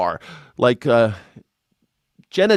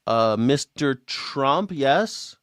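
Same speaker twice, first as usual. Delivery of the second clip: mock nervous answer; 5 dB quieter, much slower than usual. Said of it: "imagine that call".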